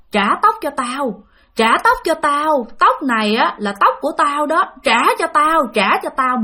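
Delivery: lightly voiced vengeful ghost demanding her hair back; eerie ghost voice. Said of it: "cái giọng này giống như là nó vang vang, nó xa xa, nó âm u".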